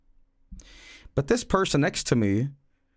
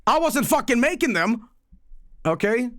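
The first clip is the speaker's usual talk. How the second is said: excited protest; 12 semitones higher than usual. Real, not acted. Laughing protest of innocence.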